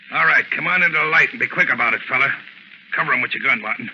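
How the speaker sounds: bully him into the light; tough command. Acted. Crook orders stranger into light.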